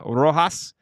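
"Rojas" drawn out with an attempted rolled R; faked rolled R. Real, not acted. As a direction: fake a Spanish rolled R on "Rojas". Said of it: "I can't really roll my R's".

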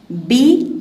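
باللعبة broken into separate syllables. Shown as a demonstration. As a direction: sound out باللعبة piece by piece. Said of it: "تقطيعها".

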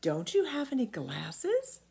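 put-on high boyish voice; a small boy correcting the giant; boy Jim answering the giant; young boy.

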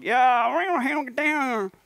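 high, loud put-on Gothenburg accent. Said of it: "in Gothenburgian accent".

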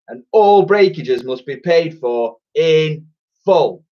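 nasty twin laying down the law; scornful villain shopkeeper. Acted. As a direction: spit contempt at the child, drawing it out.

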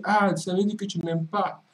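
high, whiny guilt trip; sulky girlfriend voice. Retold or imitated. Delilah voiced sulking. (voix de femme boudeuse, aiguë)

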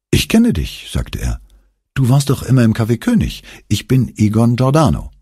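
friendly recognition, quick and bright in pitch; lightly voiced eager young man.

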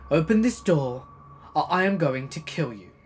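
loud threatening shout; angry shouting. Retold or imitated. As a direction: yell it through the door. Neighbor threatening through door.

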